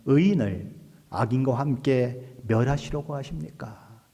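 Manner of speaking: slow, measured question in prayer; praying. Retold or imitated. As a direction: put the question to God slowly and deliberately. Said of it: "롯을 위해서 기도하죠". (천천히 기도하듯 여쭙는 말투)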